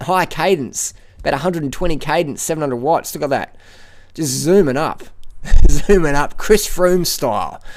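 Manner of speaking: excited cyclist calling an attack live; excited commentary. Real, not acted. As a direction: call the breakaway attack with rising excitement.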